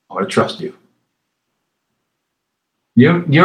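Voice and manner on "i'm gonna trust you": whispered prayer. Pretend. Imagined quiet prayer of trust.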